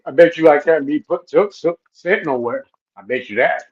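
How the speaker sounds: talking with food in mouth; words around a mouthful; mouth full. Real, not acted. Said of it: "Stop stuttering, Moses".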